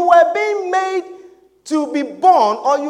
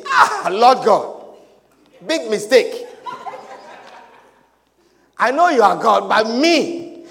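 lower, slow, half-laughing mock whine; mock whining; 5 semitones lower than usual. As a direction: whimper out an excuse to God, hammed-up. Mock reluctant prophet pleading God.

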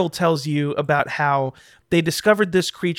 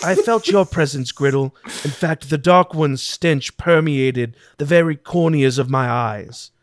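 Acted. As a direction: intone grandly, like an ancient mind speaking.

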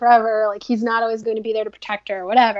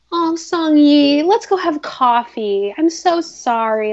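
slow, drawn-out mock sympathy; gushing apology; 4 semitones higher, slower than usual. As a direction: imitate an overly sweet friend making up. Acting ex-best friend's gushing apology.

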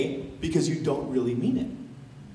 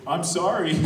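sorry said through a laugh, then a little laugh; mock apology with a laugh. Mocking someone hurt, laughing through a fake apology. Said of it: "They're laughing at your face".

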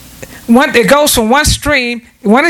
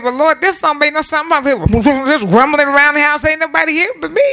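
grumbling; 3 semitones higher than usual. Retold or imitated. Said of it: "I said".

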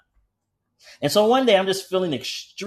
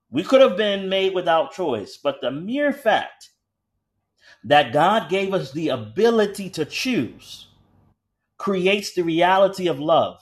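emphatic preaching; 3 semitones higher, slower than usual. Real, not acted. Preaches the main point.

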